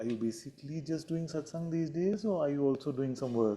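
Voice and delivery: high, falsely sweet, sugary with a barb.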